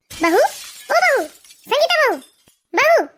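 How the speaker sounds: drawn-out, insistent call to the daughter-in-law; calling out shrieking. Acted. Mother-in-law calling her sleeping daughter-in-law at night, mildly shrieking call. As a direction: call out to wake her, stretching the word. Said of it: "ऐसे क्यों चीख रही हैं आप".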